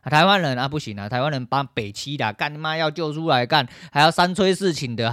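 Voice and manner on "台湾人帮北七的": usual speaking voice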